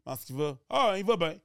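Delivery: put-on friendly greeting in a rural Quebec accent, rising; regional Quebec accent. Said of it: "l'accent de région". (accent québécois de région, salutation enjouée)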